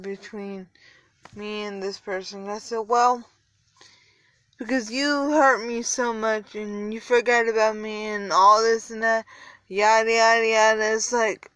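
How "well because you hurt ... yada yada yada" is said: loud and proud. Retold or imitated. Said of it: "I'm saying this loud and proud".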